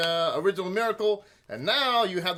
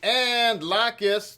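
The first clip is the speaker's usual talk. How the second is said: slow teaching; much slower than usual. Shown as a demonstration. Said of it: "names Hebrew food word".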